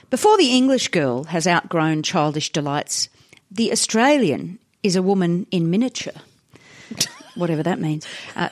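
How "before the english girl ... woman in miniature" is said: put-on measured old-newspaper editorial reading; reading aloud. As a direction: read the article out with deliberate phrasing. Reads old article aloud.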